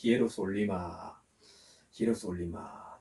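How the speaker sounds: 히에로솔리마 measured, syllable by syllable, long "li"; Greek pronunciation. Shown as a demonstration. Preacher asks listeners to follow, 히에로솔리마 sounded out carefully. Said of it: "한번 따라 해보시기 바랍니다".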